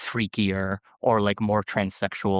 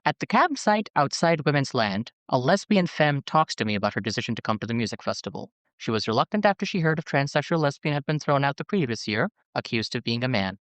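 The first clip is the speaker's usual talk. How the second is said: measured memoir reading, phrases starting raised; reading aloud. Acted. Host reading a memoir excerpt to co-hosts, measured narration. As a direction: read it out like an audiobook excerpt.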